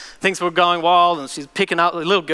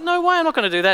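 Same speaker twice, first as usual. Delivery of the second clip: God's voice; 8 semitones higher, faster than usual. Retold or imitated. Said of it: "And he's like".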